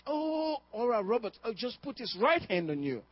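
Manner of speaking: high, gushing mock-adoring crowd voice. Churchgoers idolizing the healer's hand, voiced in a high gushing mock tone. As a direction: gush over him like an awed admirer.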